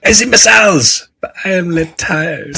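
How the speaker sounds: high, put-on meme voice; old YouTube voice. Joking with his co-host, imitating the meme voice. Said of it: "It's like the old YouTube, YouTube thing".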